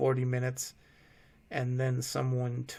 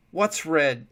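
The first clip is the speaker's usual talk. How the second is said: yelling; 3 semitones higher, 7 dB louder than usual. A narrator's reading. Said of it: "Will yelled instantly".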